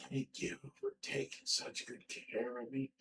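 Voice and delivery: very soft, slow imitation of a frail patient; faint patient voice. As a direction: murmur it weakly, as if imitating someone very ill. Retelling sick partner's weak thanks.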